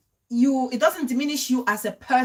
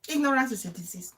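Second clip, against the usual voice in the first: faster, softer throwaway repeat; quick soft repeat; 4 dB quieter, faster than usual. Shown as a demonstration. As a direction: toss it off quickly. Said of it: "repeated for emphasis".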